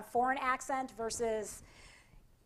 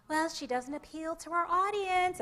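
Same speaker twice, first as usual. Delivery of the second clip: a lightly voiced dismissive station boss, higher and slow; mock TV boss; 5 semitones higher, slower than usual. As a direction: hand down the verdict like a cold executive. Mock TV boss on female newscasters.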